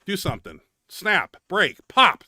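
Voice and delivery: building frustrated dare at his own body; angry taunt building. Retold or imitated. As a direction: dare the arm to break, rising to a bark. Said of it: "I'm just like".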